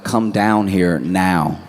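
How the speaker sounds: slow, firm summons; mock stern order. Waiting group orders the straggler downstairs, mock stern. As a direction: spell out the demand slowly.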